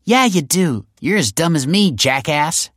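high, loud gleeful jeer; cheering. A narrator's reading. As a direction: cheer while insulting your brother. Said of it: "cheered Taylor".

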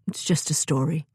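hesitant, unwilling brush-off; reluctantly. A narrator's reading. Elder reluctantly dismisses children's question, hesitant. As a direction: wave it off, not wanting to go on. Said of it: "said reluctantly".

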